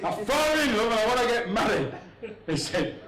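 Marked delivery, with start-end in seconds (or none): 0.0-1.9 mildly raised, excited-daughter call; a touch of hollering; shouting daughter. Acted. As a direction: announce it to Dad as a light mock shout. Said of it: "She's always shouting".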